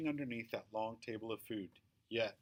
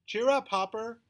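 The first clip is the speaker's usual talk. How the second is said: loud, higher booming aunt; 8 semitones higher, 5 dB louder than usual. A narrator's reading. Aunt greets her nephew at the party, booming. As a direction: boom it right into his face. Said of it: "she booms up my nose".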